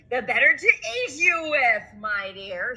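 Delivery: growled wolf threat; menacing wolf. Acted. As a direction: pounce with a snarl. Wolf reveals.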